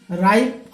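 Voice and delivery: राइप with the ai glide, final p crisp; say ripe. Shown as a demonstration. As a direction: model राइप for students. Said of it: "आर I P". (राइप का उच्चारण)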